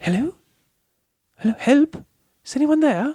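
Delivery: tiny, very high, quick small voice. Ending a game session, voicing someone inside the practice room: small voice crying out. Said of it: "you hear a small voice cry out".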